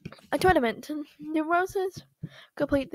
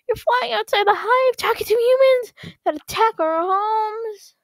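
higher, louder telling-off; angry scolding; 7 semitones higher, 9 dB louder than usual. Acted. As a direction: scold him hard. Parent scolding son.

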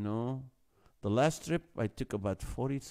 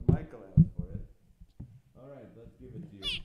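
hyped buildup; 2 semitones higher, 3 dB louder, faster than usual. Real, not acted. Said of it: "a scary laugh".

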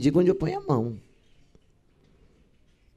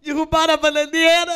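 high, loud giggly recitation; mock-cheerful, squealed verse; reciting while laughing; 10 semitones higher, 6 dB louder than usual. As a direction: imitate a student grinning through a sad poem. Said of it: "Ela acaba assim".

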